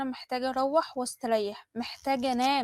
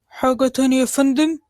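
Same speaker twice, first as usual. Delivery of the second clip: lightly voiced waiter; 8 dB louder than usual. Waiter asks about order.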